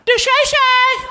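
high, slow shout. Pretend. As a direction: holler it out high. Catchphrase hollered high.

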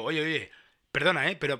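indignant retort. Retold or imitated. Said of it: "y le digo yo".

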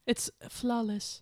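slow, dry mock praise; deadpan it as if truly impressed; mock-serious praise of an accent; sarcastic praise. Ironic praise of a bad accent.

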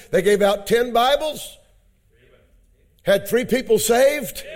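rousing preaching. Acted. Preacher telling the church who took Bibles, rousing preaching. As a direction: preach the testimony with mounting emphasis. Preaching the testimony's high point.

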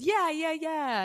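very high, quick agreeing voice; high-pitched retold yeses; actress confirming. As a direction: imitate an indulgent celebrity saying yes. Voicing actress confirming her show.

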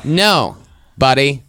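mock indignant speech; self-righteous rant. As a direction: build to a proud climax. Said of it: "I go".

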